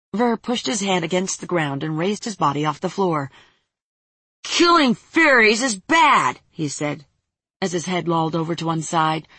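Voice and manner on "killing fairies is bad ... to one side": put-on drunken slur. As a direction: slur it sleepily. Drunk child slurring.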